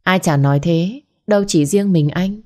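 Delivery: lightly feminine voice from a male narrator; a hint of a coy woman's voice; man doing a woman's voice. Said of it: "Anh giả giọng nữ".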